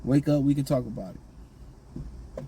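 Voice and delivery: calm soothing. Shown as a demonstration. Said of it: "yelling and screaming".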